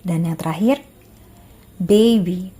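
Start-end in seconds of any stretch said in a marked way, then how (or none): 1.8-2.5 careful, emphatic single-word model for repeating; pronunciation model. Shown as a demonstration. Teacher models a word for students to repeat, carefully articulated. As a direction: say it clearly for learners to copy. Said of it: "Saya ucapkan, lalu kalian coba ikuti".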